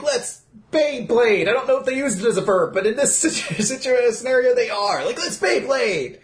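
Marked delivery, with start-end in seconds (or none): 0.0-1.5 slow, high mock catchphrase; drawn-out rallying cry; hammed-up battle cry. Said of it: "they'd, they'd be like". 5.2-6.2 high, stretched-out mock catchphrase; hammed-up battle cry.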